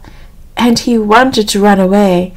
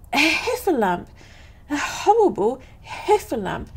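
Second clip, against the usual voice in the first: higher-pitched, storybook alarm; alarmed cry; 5 semitones higher, 10 dB quieter than usual. A narrator's reading. Piglet looking down into the trap, alarmed cry. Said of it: "cried Piglet".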